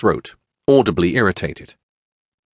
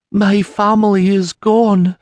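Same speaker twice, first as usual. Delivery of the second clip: high, slow, tearful woman's voice; a broken widow barely holding together; grieving peasant woman; 12 semitones higher, 4 dB louder than usual. Acted. Mary tells Sienna her family is gone, tearful and high.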